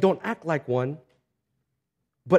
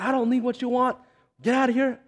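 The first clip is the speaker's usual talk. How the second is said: high-pitched retold irritation; mock angry householder, pitched up but not shouted; cussing man; 6 semitones higher than usual. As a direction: imitate an annoyed man sending visitors away. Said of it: "cussing, cursing".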